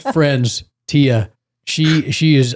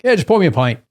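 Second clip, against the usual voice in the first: put-on British accent; 5 semitones higher, faster than usual. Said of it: "any British show ... they're like".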